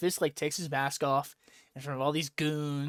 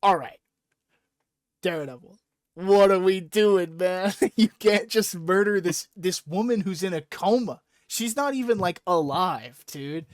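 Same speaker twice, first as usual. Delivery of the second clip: mock exasperated plea; 3 semitones higher, 5 dB louder than usual. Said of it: "is like".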